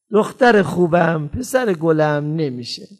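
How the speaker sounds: slow, gentle but firm refusal; kind but firm. Shown as a demonstration. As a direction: say no lovingly, slowly. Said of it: "هم لحن آروممو دارم، هم با محبت". (آرام و مهربان اما محکم)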